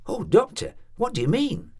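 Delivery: high, alarmed plea, rising at the end; anxious landlady begging to know, rising. A narrator's reading. Landlady pleading with the doctor, alarmed and rising.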